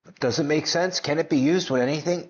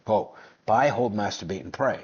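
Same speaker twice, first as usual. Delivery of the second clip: low mocking repeat; 6 semitones lower than usual. Shown as a demonstration. Vlogger to viewers mocking buy and hold, low and scornful. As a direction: mutter it back lower, sneering at the strategy.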